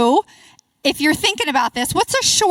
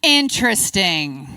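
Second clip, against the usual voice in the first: slow, drawn-out interesting; pointed interesting; 4 semitones lower, slower than usual. Shown as a demonstration. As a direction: let interesting hang, doubtful. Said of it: "My go-to is interesting".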